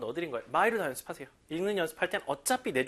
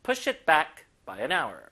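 slow, both "push" and "back" stressed; 3 dB louder, much slower than usual. Shown as a demonstration. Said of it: "양쪽에 힘 줄게요".

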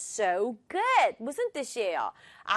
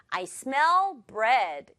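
"I" light, "smell" and "bread" stressed; much slower than usual. Shown as a demonstration. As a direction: punch "smell" and "bread", skim over "I". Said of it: "이게 자연스럽네요".

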